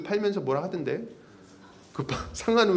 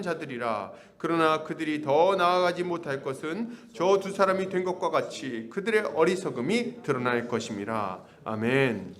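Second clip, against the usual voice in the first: measured pulpit reading of the Bible; slow, solemn Bible reading; scripture reading. Acted. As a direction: read the passage with solemn weight. Reads scripture passage aloud.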